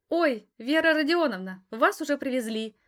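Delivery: put-on high bright girlish chirp. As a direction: chirp it out like an excited girl. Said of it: "прощебетала она".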